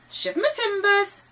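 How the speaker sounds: high-pitched, loud bird squawk; loud squawking parrot. A narrator's reading. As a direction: cry out as the pirate's parrot. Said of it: "the voice repeated".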